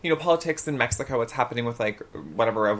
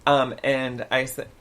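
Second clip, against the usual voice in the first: normal talking voice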